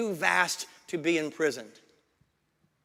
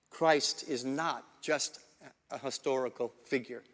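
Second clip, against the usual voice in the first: deliberate restatement; 4 semitones lower, 3 dB quieter than usual. Shown as a demonstration. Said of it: "Let me say that again".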